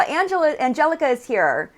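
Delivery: high, bright hello to a friend; light up as she arrives; delighted welcome; excited greeting. Real, not acted.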